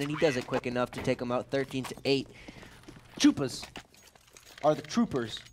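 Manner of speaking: steady play-by-play commentary; esports caster. Acted. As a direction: narrate the round for viewers. Live play-by-play.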